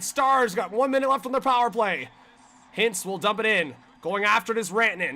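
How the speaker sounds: quick-moving hockey commentary; live game call; live play-by-play. Real, not acted. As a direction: follow the puck as it moves.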